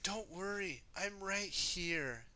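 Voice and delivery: high, reassuring character voice; soft voice. A narrator's reading. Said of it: "in her soft voice like this".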